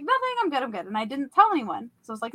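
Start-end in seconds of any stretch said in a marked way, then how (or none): 0.0-0.9 high-pitched quick denial; retold hasty brush-off. Woman covering up her nightmare to coworkers, hasty high brush-off. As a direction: insist you're fine, pitched well up.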